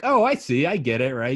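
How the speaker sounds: mock the jock's lightbulb moment, overjoyed; sudden realization. Imitating a jock who finally gets math, bursting excited.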